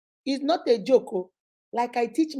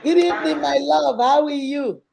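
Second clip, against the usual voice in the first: high, louder affectionate welcome; effusive greeting; 4 semitones higher, 6 dB louder than usual. Real, not acted. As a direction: greet a dear guest with open delight. Greeting the guest who has joined.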